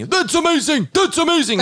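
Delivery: put-on very high, excited little-kid exclamation; little nephew's amazed voice. Imitating four-year-old nephew discovering a new word, high excited squeal. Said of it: "he would change his tone".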